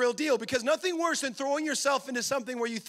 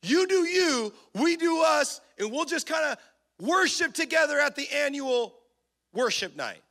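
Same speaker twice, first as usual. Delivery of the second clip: mocking flippant voice; 3 dB louder than usual. Mocking lukewarm church attitude.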